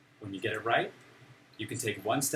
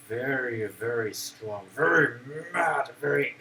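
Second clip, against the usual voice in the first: demonstrated anger. Shown as a demonstration. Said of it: "it's when you're feeling".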